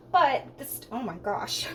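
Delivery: straining at a stuck lid; words squeezed out while twisting a lid; opening a stuck jar. Real, not acted. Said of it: "now I can't get the lid off".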